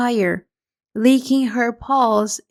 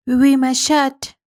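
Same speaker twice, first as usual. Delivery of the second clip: French phrase; 3 semitones higher, 4 dB louder than usual. Acted. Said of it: "So she begins again".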